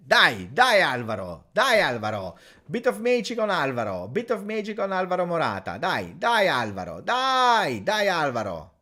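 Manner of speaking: pleading cheer with swooping, falling calls; will the striker on, pitch leaping up and dropping; urging on. Real, not acted. Urging his striker on live.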